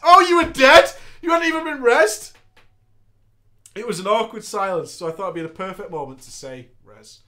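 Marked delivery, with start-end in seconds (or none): 0.1-2.3 loud, high mock disbelief; mock surprise. Healer shocked nobody rezzed, mock surprise. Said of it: "healer reacts in story". 6.9-7.2 quiet deadpan. Retold or imitated. Deadpan joke in awkward silence.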